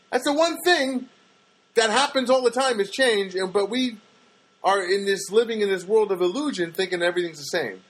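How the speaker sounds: big swooping high-pitched delivery; sing-song, over-the-top pitch; exaggerated cartoon intonation. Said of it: "why are you talking like this?".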